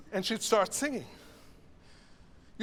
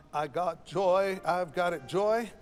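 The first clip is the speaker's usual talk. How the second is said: slight accent landing on "joy"; slower than usual. Shown as a demonstration. Choir director showing singers the accent, stressed "joy". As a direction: stretch the phrase and lean on "joy". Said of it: "There's a nice accent".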